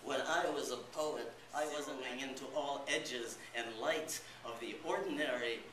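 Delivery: loud, ringing delivery of "When I was a poet"; loud poetic declaiming. Acted. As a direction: proclaim it boldly to the room. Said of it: "poem refrain read loud".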